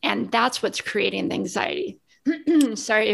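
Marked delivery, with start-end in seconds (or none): 2.3-3.1 throat catching, clearing it; choking on a drink. Real, not acted. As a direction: talk through a choking cough. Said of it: "I'm choking over here".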